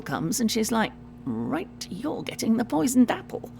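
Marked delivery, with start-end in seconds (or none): 1.2-3.5 fed-up evil queen. Acted. Queen fed up with Snow White.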